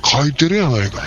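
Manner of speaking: hammed-up Osaka complaint; Osaka dialect. Customer insisting on the writing at the counter in Osaka dialect. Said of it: "思いっきり大阪弁になりましたけどね".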